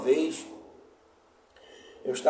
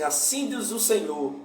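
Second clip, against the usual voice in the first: prophet's formula; 4 semitones higher than usual. Retold or imitated. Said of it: "ele foi profetizar".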